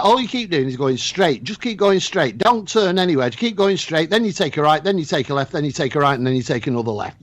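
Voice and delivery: put-on a light Scottish accent giving directions; imitating the Scottish family's directions in a mild Scottish accent. Host retelling the Scottish family's directions, in a light Scottish accent. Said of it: "I'm doing this in the Scottish accent".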